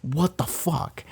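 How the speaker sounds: mock the crew's baffled reaction; lightly acted stunned crew; stunned disbelief. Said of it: "everyone's like".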